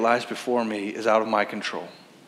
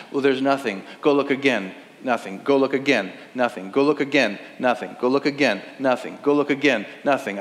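annoyed repetition. Acted. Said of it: "you're already annoyed".

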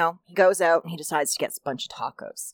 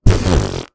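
low fart noise; mock fart noise in the joke; imitated fart; 8 dB louder than usual. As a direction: blow out a low fart sound. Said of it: "he lets out".

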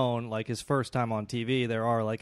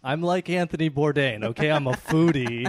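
indignant; 3 semitones higher, 5 dB louder than usual. Acted. Acted cannibal defending himself.

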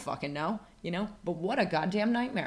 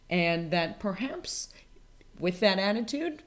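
whispered, slow and secretive; hushed aside; 4 semitones higher, 3 dB louder, slower than usual. Acted. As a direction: lean in and whisper it.

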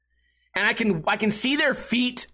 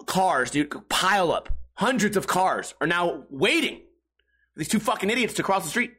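normal talking voice

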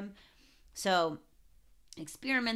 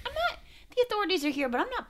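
laughing; much faster than usual. Retold or imitated. Laughing Havoc impression.

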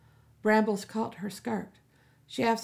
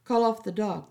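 curt order, a bit louder; 4 dB louder than usual. Acted. Captain ordering Melly about the dog, curt. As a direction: command it, no room to argue. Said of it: "the captain ordered".

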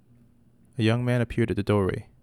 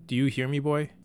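screamed; 4 semitones higher, 4 dB louder than usual. Acted. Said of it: "Catalina screamed at the boy".

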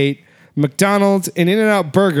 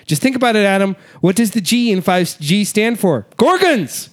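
rising frantic conspiracy rant. Pretend. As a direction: build it into wild paranoia. Mock conspiracy rant building up.

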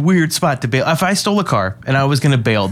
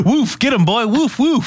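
mock dog command; 10 semitones higher than usual. Mock cop barking command.

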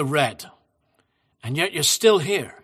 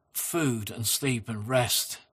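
slow gentle repeat; 7 semitones lower, 8 dB quieter, slower than usual. Shown as a demonstration. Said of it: "And again".

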